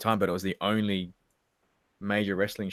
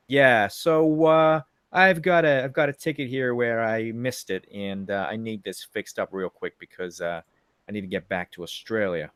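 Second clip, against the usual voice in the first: put-on American accent. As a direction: feign an American accent to be understood. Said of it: "This is what I had to do".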